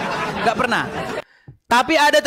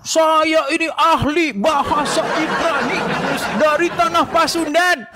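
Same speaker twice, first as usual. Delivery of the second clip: mock quote; 3 semitones higher, slower than usual. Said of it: "kamu kan tiap hari ngomong".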